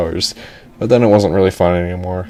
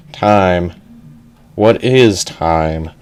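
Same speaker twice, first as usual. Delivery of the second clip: slow, lowered mock-philosophical voice; pondering brain; 3 semitones lower, much slower than usual. Brain in a container asked the time, slow pondering voice. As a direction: draw it out like a deep thinker.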